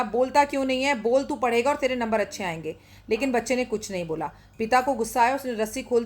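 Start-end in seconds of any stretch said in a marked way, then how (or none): 0.0-2.8 mother shouting. Acted. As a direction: push her voice out to reach the well. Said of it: "खिड़की में से ही बेटे को चिल्लाकर बोला".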